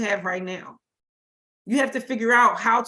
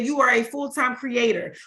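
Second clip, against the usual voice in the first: "full-time" given deliberate weight; stress on full-time. Real, not acted. Coach telling listeners what light workers are, stressing "full-time". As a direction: lean on the word "full-time". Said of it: "I'm stressing the word full-time".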